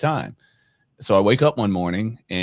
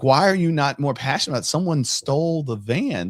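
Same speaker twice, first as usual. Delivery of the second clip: much higher, quick exasperated retold whine; 7 semitones higher than usual. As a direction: demand dad care more, higher and higher. Teen frustrated at calm father.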